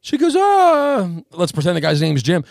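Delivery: high, loud, shrill-pitched alarm; a panicked mother shouting for answers; alarmed mom. Retold or imitated. Mom shouting at Jim about his friend, very high and loud. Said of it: "the mom stands up and goes".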